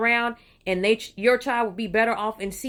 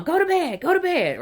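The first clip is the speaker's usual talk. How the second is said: higher, louder mock mom order; mother sending kids to bed, raised mock scold; 9 semitones higher, 4 dB louder than usual. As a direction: bark it like a fed-up mother.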